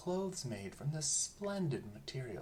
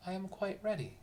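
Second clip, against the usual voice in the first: emperor announcing; 7 semitones higher than usual. A narrator's reading. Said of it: "announced the emperor".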